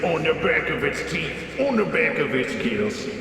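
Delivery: lightly done bad Australian accent. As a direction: tall tale in a weak Aussie accent. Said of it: "Please do bad Aussie accent".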